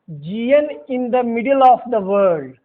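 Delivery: slow, each word placed; slow dictation. Shown as a demonstration. Teacher dictating the GN rule slowly. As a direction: dictate it so they can write. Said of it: "teacher dictating the rule".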